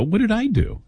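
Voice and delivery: high-pitched puzzled protest; retold protest. Host retelling his plea to Mark, high protesting question. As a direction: go up high, mock-innocent.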